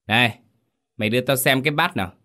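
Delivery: fast, sharp demand; suspicious demand. Acted. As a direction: stop him suspiciously. Mistress stops servant.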